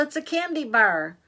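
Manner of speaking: excited discovery. Acted. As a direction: announce a thrilling treat. Girl spots candy bar in hole.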